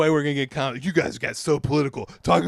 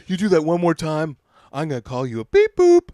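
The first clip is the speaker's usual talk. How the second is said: louder, firm mock warning; retold stern threat; 2 semitones higher, 7 dB louder than usual. Imitating a club comic warning a performer, mock stern. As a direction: lay down a warning, punching the end.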